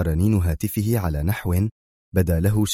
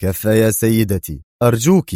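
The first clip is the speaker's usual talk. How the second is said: mildly irritated cut-in, louder on the last word; irritated interruption; 2 semitones higher, 4 dB louder than usual. Acted. Bruce silencing a persistent caller, irritably. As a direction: cut the caller short, on edge. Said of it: "عاد يقاطعها في عصبية".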